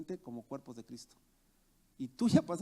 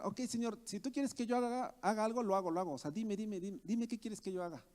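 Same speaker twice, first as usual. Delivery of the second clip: mock over-eager offer, starting higher; proud; 3 semitones higher than usual. Preacher voicing us telling the Lord we can do anything, mock proud. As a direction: imitate someone too sure of themselves, repeating eagerly. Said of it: "orgulloso en el que a veces podemos caer".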